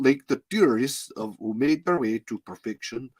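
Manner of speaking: put-on lightly Russian-tinged accent; failed accent sliding into Russian; slipping into Russian accent. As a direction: try the line but let it drift Russian. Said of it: "can't get the fucking Russian out of my head".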